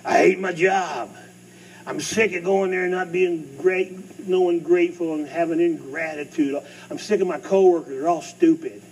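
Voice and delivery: grumbling complainer. Retold or imitated. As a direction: whine like a fed-up worker. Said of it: "You ever heard people talk like that?".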